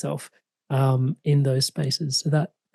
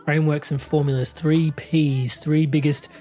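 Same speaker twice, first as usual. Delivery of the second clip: podcast outro read; 3 dB louder than usual. Acted. Podcast host inviting listeners to comment, upbeat read.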